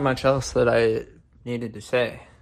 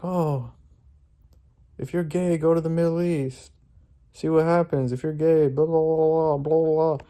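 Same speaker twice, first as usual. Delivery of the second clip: mock heckler; 3 semitones higher than usual. Protester heckling flag carriers, mildly mocking imitation. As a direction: imitate a ranter trailing into blahs. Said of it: "He was yelling at them".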